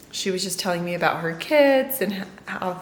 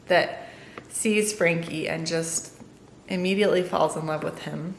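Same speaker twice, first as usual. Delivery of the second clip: storybook reading voice. Acted. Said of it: "I'm gonna do my version".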